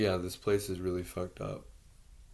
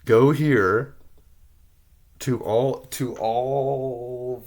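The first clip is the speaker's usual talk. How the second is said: much louder demand, drawn out slowly; frustrated loud appeal to Congress; shouted plea; 10 dB louder, much slower than usual. Real, not acted. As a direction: yell the directions at them.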